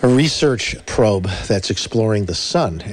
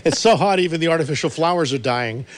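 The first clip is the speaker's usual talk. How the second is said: brash vaudeville comic; 5 semitones higher than usual. Acted. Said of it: "Rodney Dangerfield".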